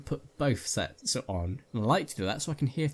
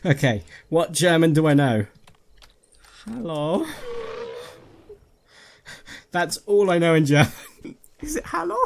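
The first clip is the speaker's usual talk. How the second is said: higher, louder nervous babble; frantic laugh-talk; 6 semitones higher, 8 dB louder than usual. Real, not acted. Streamer rattled after jump scare, frantic high babble. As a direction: babble through the panic.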